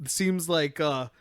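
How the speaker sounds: a hint of a tough guy, cocky; lightly voiced tough fighter taunting; manly voice. Friends recapping an anime, a mildly manly hero voice. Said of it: "I really like your manly voice".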